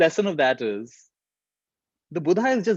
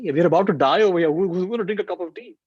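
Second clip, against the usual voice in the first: incredulous; 5 semitones higher than usual. Retold or imitated. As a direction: scoff at the idea of tea before dying. Mocking the absurd order.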